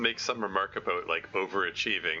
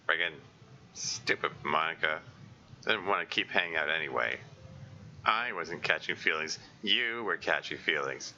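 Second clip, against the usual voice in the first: lower, muttered self-scolding; Natsuki sulking; 3 semitones lower than usual. Acted. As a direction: grumble it to yourself, stung. Natsuki sulks alone after breakup.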